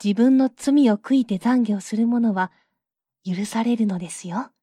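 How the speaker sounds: a touch of gentle forgiveness. Acted. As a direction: Maria speaks kindly to the queen. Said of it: "優しく".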